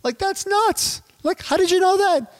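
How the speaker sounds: high, excited amazed client voice. Retold or imitated. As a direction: squeal it like a stunned prospect. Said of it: "And they're gonna say".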